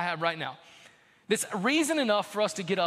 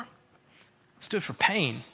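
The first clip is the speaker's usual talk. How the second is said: slow emphasis; 3 semitones lower, much slower than usual. Acted. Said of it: "slow emphasis".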